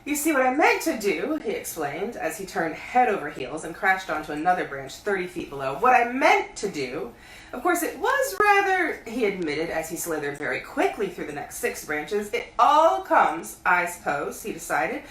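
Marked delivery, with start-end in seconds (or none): 0.1-1.4 explaining mid-fall. Acted. Pooh falling, explaining loudly. 5.8-8.9 explaining mid-fall. Acted. Pooh falling, explaining. 12.3-14.4 breathless fall. Acted. Pooh falling.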